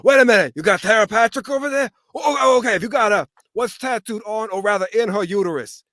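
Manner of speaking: loud, high excited neighbour voice; Carl. Acted. Cartoon neighbour on the phone, loud and high, excited. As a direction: get worked up on the phone. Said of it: "Carl's on the phone".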